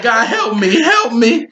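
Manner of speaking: rising, laughing plea to God; hammed-up cry for help through giggles; mock desperate prayer.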